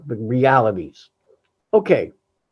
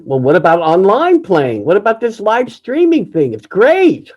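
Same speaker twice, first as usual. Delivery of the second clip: mock-enthusiastic, rising higher and louder to the end; upbeat friends; 4 semitones higher, 5 dB louder than usual. Friends pushing live streaming on him, mock upbeat sales pitch. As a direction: sell the idea like an eager friend. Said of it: "and tell me".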